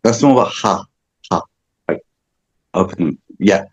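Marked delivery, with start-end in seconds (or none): 0.0-1.4 breathy ha from the throat. Shown as a demonstration. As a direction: open throaty ha exhales. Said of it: "Like ha from the throat".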